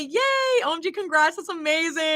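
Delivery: high squeal of "Yay" sliding into polite cheer; mock-enthusiastic congrats with a laugh; put-on excitement. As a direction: fake the delight to be nice. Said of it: "but I just say".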